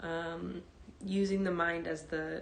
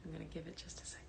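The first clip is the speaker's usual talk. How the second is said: hushed class welcome; 16 dB quieter, faster than usual. Real, not acted. Teacher waiting for live students to join before meditation, hushed. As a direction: speak gently and quietly, as if settling the room.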